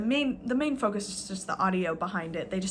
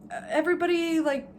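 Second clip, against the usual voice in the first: lightly imitated Arab accent, higher; half-hearted Arab accent impression; mock Arab accent; 6 semitones higher than usual. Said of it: "awful, racist, stereotypical, like, Arab accents".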